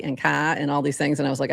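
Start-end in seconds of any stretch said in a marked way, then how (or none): 0.2-0.6 "ka" as a Bostonian says car; Boston-accented "ka", r dropped. Retold or imitated. Podcaster recalling words college friends requested, Boston accent. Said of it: "people kept asking me to say".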